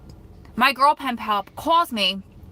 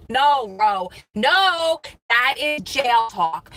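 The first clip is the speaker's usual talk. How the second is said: self-scolding; 3 semitones higher, 6 dB louder, much slower than usual. Real, not acted. Scolding herself for prison lingo.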